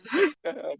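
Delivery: sudden very high squeak; silly high-pitched squeak; squeaky falsetto. Real, not acted. Reacting to fanning himself.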